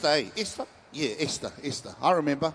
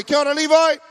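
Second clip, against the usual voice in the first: Maori accent; 6 semitones higher, 4 dB louder, faster than usual. Shown as a demonstration. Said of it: "Everyone say".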